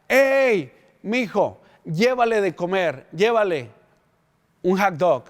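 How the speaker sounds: wife calling out to her husband to bring food. Retold or imitated. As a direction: shout across the yard to her husband, then settle.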